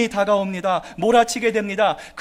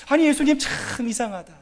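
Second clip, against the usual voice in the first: rising, louder baffled disbelief; disciples' bewilderment; 4 semitones higher, 4 dB louder than usual. Retold or imitated. Disciples wondering at the sleeping Jesus, baffled and rising. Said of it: "이렇게 아마 생각했을지도 모르겠어요".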